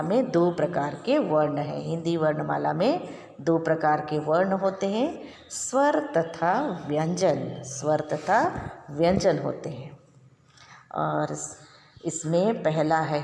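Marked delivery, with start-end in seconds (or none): 5.5-7.6 slow dictation. Shown as a demonstration. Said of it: "first मैं पढ़कर बताऊंगी आपको".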